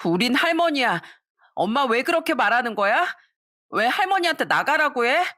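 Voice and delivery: put-on high, pleading child's voice; a child begging mom to stop; upset child. Children siding with grandma. (엄마에게 따지는 아이의 높은 목소리)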